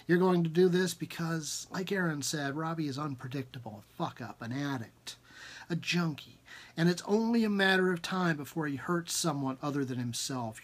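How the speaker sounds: measured second-person story reading; story narration. Acted. Author reading his novel aloud, measured narration. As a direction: read the story to listeners, steady.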